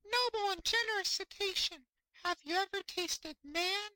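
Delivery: very high, small squeaky fish voice; tiny fish voice. Acted. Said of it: "said in a small 'Stute voice".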